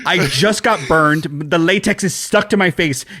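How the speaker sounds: hammed-up frazzled complaint; mock exasperation. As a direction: play someone begging for a break. Voices Michael's annoyed plea.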